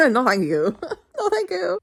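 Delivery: high, laughing "no thank you"; laughing refusal. Real, not acted. Reader rejecting a disturbing book, laughing. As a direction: refuse through bursts of laughter.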